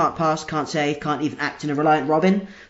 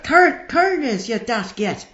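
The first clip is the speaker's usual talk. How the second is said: Cor-, corners stretched slowly and pitched much higher; exaggerated accent; 4 semitones higher, much slower than usual. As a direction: drag out Cor-, corners in a thick Northern Irish accent. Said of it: "if you're gonna talk to me like that".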